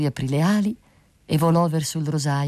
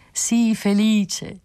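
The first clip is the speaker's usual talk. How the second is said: calling out; 7 semitones higher, much slower than usual. A narrator's reading. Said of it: "gli gridò l'usignolo".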